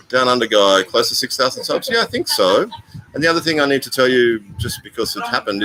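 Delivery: ordinary talk, nothing marked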